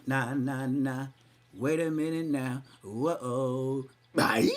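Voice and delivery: imitating the intro. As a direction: hype it like a rap intro. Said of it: "did that for a rapper".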